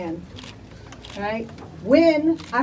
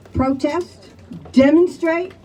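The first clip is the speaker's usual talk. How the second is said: rally cry; 5 semitones higher, slower than usual. Real, not acted. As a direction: rouse the crowd to act. Rally call to action.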